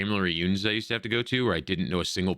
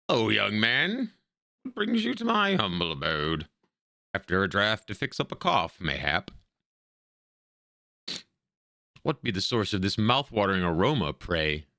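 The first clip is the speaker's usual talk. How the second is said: put-on drawn-out old lady voice, courteous; hammed-up old woman with stretched words; elderly lady greeting. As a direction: play a quaint old woman welcoming a visitor.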